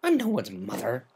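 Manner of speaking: a tomboy admitting she didn't know; Rainbow Dash voice. Acted.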